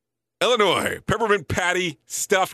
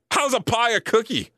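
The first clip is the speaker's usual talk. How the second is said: incredulous; 7 semitones higher than usual. Real, not acted. Questioning the cookie list.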